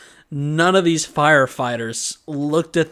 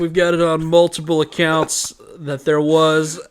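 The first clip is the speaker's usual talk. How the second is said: loud, raised official-report voice; mock firefighter report; 3 semitones higher, 6 dB louder than usual. Firefighter telling the dad about a masked man, hammed-up report. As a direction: play a firefighter announcing the findings, starting loud and high.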